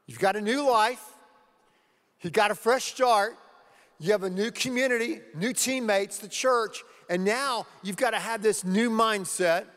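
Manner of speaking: preacher rallying the congregation; rousing exhortation. Acted. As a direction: lift them up, pick up the pace.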